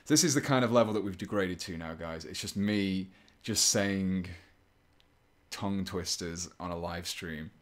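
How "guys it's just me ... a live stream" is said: usual speaking voice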